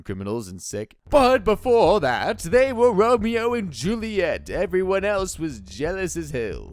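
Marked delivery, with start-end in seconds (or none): 1.1-6.7 slow dreamy flashback narration; dramatic flashback voice, drawn out; flashback echo. Acted. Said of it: "This is my flashback voice".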